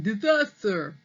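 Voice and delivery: lightly voiced toothless old man; a quick echo of Grandpa's cry; a hint of the old man voice; imitating Grandpa. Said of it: "Why is he going".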